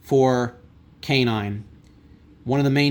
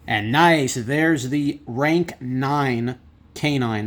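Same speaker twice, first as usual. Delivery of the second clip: excited; much slower than usual. Real, not acted. Big card pulled.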